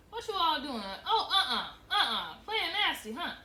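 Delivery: loud, scoffing mother with a laugh in it; mother catching the girls, loud mocking laugh; mocking scold. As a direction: laugh at them in disbelief while scolding.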